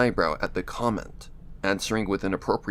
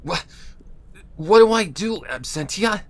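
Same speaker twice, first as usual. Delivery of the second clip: panicked; 8 semitones higher, 6 dB louder than usual. Acted. Panicked plea for help.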